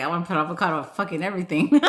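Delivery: laughing through it, rushed; fast laughing quote. Retold or imitated. Telling chat about her avocado phase, rushed and laughing. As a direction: gush it out fast while laughing. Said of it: "I was like".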